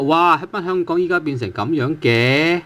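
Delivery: fluent surprised question in one run; mild surprise. Shown as a demonstration. Teacher showing how 嘅 marks surprise, fluent and lightly surprised. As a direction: run it together as a mildly surprised remark. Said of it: "well, it's a surprise".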